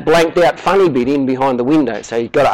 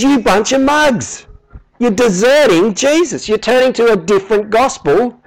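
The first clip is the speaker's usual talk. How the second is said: angry rebuke; 5 semitones higher than usual. Retold or imitated. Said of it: "He says".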